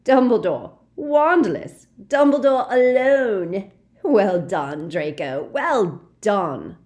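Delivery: loud, high, gleeful cackling cheer; eager gloating sister, loud. Acted. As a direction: squeal over the victory.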